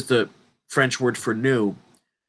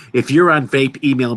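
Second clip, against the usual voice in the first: louder, pointed repeat of the warning; louder, scolding repeat; 4 dB louder than usual. Real, not acted. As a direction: push the repeat at the listener.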